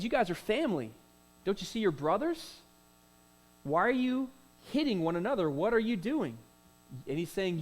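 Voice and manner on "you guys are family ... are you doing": higher, pleading brother-to-brother plea; pleading Moses. Acted. Moses pleads with fighting Hebrews, voice raised and pleading. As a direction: plead with them as family. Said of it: "What he's really saying is".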